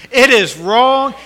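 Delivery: slow and loud, "it is wrong" hammered high; stress on wrong. Acted. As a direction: punch "it is wrong" word by word.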